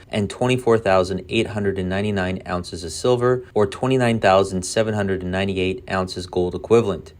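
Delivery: ordinary talk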